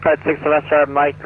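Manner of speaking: choppy radio cutting out; broken, dropping-out transmission; radio breaking up. Real, not acted. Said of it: "You're coming in broken for that last one".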